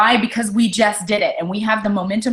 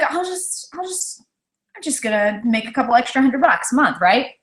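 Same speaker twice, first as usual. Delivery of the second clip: mock naive self; 5 semitones higher than usual. Retelling her own first thought.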